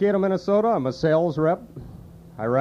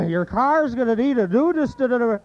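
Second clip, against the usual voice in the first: higher Sid retry; Sid impression, stumbling again; 7 semitones higher than usual. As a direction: push harder at the word and fail. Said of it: "you can do Sid".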